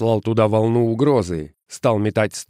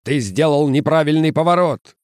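higher, louder angry shriek; 6 semitones higher, 4 dB louder than usual. A narrator's reading. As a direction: screech the accusation. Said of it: "визжал дядя Джон".

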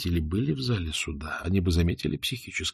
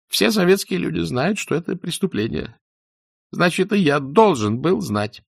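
fearful protest; 10 semitones higher, 7 dB louder than usual. Acted. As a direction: insist loudly out of fear. Doctor's frightened loyal protest. (испуганно и громко)

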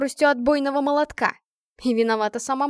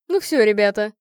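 sharp falsetto; 6 dB louder than usual. A narrator's reading. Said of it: "резкий фальцет".

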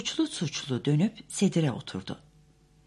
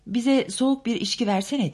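louder, higher call for drinks; 8 semitones higher, 5 dB louder than usual. A narrator's reading. Daisy calls out to Tom for cold drinks, loudly. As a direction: call out across the room. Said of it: "diye bağırdı Daisy".

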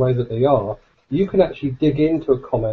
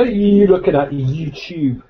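Cockney tough-guy jeer; Cockney accent. Shown as a demonstration. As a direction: jeer it like a London hard man. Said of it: "Cockney accent".

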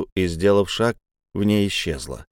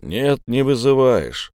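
calm assurance; 3 semitones higher, slower than usual. Acted. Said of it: "заверил Энтроп".

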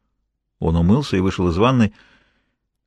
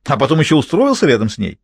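indignant tirade; 6 semitones higher than usual. Acted. Jealous mistress berating her lover in their hotel room, indignant. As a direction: keep piling on the accusations. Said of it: "возмущалась Изольда".

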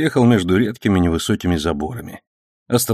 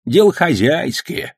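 put-on slow, higher old man calming things; soothing; 8 semitones higher, slower than usual. A narrator's reading. Old man calming the policeman, slow and soothing. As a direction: settle him down gently. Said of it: "успокоил Сан Саныч".

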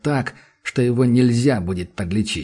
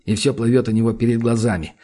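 plain reading voice

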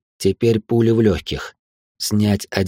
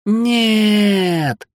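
high, piercing scream of horror; terrified scream; 12 semitones higher than usual. A narrator's reading. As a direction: scream it out in terror. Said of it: "в ужасе кричит сестра". (испуганный крик)

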